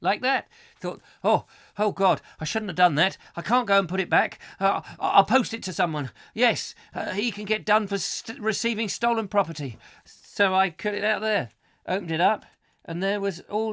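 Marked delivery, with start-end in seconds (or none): 1.2-9.8 higher, louder fretful thinking aloud; flustered, quick-changing self-talk; mock panic. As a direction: replay a guilty panic, hammed up. Retelling own panicked thoughts in anecdote.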